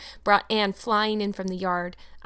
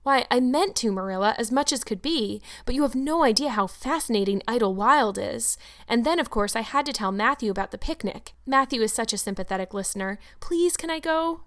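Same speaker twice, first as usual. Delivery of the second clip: put-on bubbling child begging to go to the picnic; eager young Anne. Anne explains and pleads.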